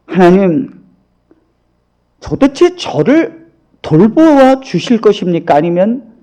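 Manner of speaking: lightly mimicked crying protest; retold tearful plea. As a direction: act out a hurt, wailing complaint without real sobs. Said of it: "하면서 막 펑펑 울었어요".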